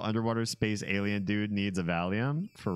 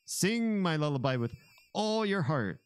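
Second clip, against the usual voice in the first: lightly voiced alien villain, higher pitch; 8 semitones higher than usual. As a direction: read the alien boss line with a hint of drama. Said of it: "You must sing my lullaby".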